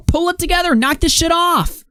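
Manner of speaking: exasperated scolding. Real, not acted. Tells Cobra off directly.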